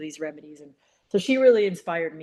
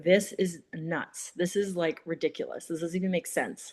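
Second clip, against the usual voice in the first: eye-rolling scorn. Retold or imitated. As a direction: scoff at the idea like it's nonsense. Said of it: "rolling my eyes and I was like".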